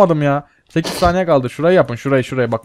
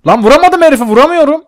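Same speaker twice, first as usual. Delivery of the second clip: frustrated; 10 semitones higher, 4 dB louder than usual. Real, not acted. Frustrated gamer missing shots.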